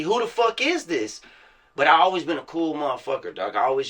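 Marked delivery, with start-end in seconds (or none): 0.0-1.2 mock puzzled local. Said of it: "it's like".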